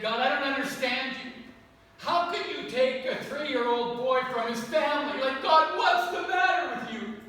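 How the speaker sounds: retold prayer, rising to a raw cry; crying out to God. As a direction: hurl the questions up at God in grief. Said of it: "I was just honestly crying out".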